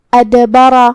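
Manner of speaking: ادبرہ chanted with a bouncing echo on the d; qalqala on the dal. Shown as a demonstration. Teacher demonstrates qalqala, ادبرہ with a bounced d. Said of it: "دال کو ہلاتے ہوئے یہ کلمہ کو ادا کرنا ہے".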